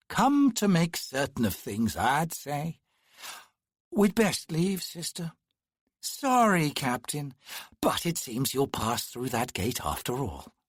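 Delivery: god of chance toying with a mortal; condescending twin. Acted. Narrator voices the twin.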